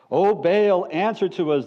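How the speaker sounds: calling out loudly to Baal; a mock cry to a silent god; retold shout. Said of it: "they shouted".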